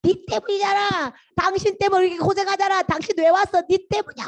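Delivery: high-pitched wail of blame; acted Israelites griping at their leader; resentful complaining. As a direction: whine accusingly, pitch held up high. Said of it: "계속 이렇게 원망해".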